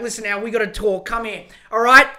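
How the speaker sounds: tough-love coach laying into him; hammed-up motivational rant, building from firm to shouting; yelled pep talk. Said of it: "giving him this big motivational talk".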